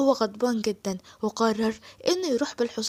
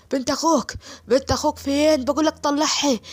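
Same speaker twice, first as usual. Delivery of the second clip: 1 angry demand; 3 semitones higher, 4 dB louder than usual. Acted. Asim demands his niece.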